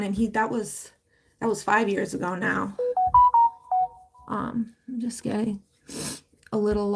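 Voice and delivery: real tears close, barely holding it; getting emotional. Real, not acted. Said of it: "that just got me a little emotional".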